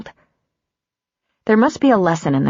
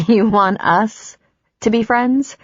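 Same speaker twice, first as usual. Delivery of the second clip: slow, rising disbelief; stunned she'd even ask; a touch of aghast disbelief; 5 semitones higher, slower than usual. Acted.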